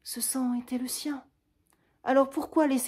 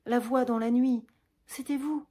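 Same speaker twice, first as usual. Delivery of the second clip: high and loud, pressing him; unmasking him with overwhelming emotion; impassioned accusation; 6 semitones higher, 7 dB louder than usual. Acted. Roxane pressing Cyrano with the truth, high and loud.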